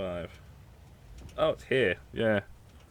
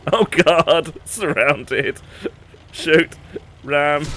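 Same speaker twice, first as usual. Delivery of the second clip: high loud panicked shouts; frantic yelling; 6 semitones higher, 7 dB louder, much slower than usual. Real, not acted. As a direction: shout it in a frenzy. Frantic yells in game chaos.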